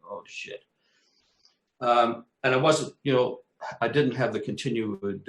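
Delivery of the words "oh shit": whispered dismay. Retold or imitated. Collapse returning.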